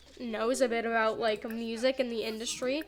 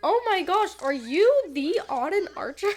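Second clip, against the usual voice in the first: excited fan; 5 semitones higher, 5 dB louder than usual. Retold or imitated. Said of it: "just be like".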